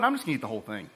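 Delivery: sly. Retold or imitated. Tempted listener eyeing a pie, quiet and sly. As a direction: mutter it to yourself. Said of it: "and you're like".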